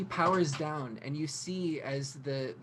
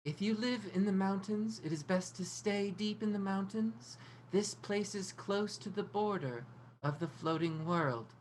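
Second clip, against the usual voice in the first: higher, softer trance recital; reciting; 6 semitones higher, 5 dB quieter than usual. Acted. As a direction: recite it as if entranced. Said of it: "she just starts reciting".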